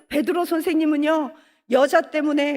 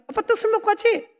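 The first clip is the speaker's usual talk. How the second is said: put-on nagging child; 7 semitones higher than usual. Child nagging drunk father.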